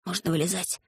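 whisper. Acted. Pashka in the hiding pit, softly whispering. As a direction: keep it soft, barely spoken. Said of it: "прошептал Пашка".

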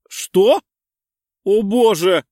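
loud, high burst of shock; sudden realization. Acted. Lena realizes the gift is a pregnancy test, loud shock. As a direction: gasp it out as it dawns on her. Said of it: "Её осенило за доли секунды".

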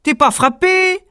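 high, loud mocking retort; hammed-up grumble; grumbling giant. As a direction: snap back at him. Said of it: "grommela le premier géant".

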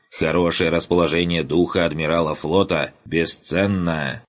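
pompous colonel. Acted. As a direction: command them, smug and unhinged. Colonel giving deranged orders.

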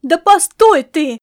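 loud, drawn-out cry to stop her; shout. Acted. Grandma shouts after the fleeing girl. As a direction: call after her to wait. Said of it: "крикнула она".

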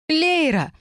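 staged public scene of jealous fury; jealous shout. Acted. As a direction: shriek the name, then the charge. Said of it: "закричал Арк".

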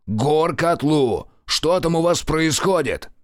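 повторный тревожный вызов по рации; вызывай ещё тревожнее; крик в рацию. Acted. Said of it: "прокричал он в микрофон". (тревожный крик в рацию)

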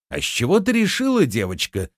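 fast, high-pitched indignation, falling at the end; flaring up. A narrator's reading. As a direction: bristle and fire off the challenge. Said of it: "взвился Рувен". (вспылив, быстро и высоко)

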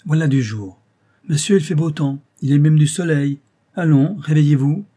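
put-on old servant cheerfully waking the master; affectionate familiarity. A narrator's reading. Old servant wakes his master, affectionate familiarity. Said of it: "Avec cette affectueuse familiarité".

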